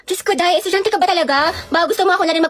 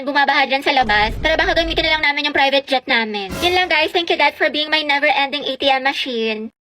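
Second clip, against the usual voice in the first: spoiled rich vlogger; 2 semitones lower than usual. Acted. Rich kid house tour vlog.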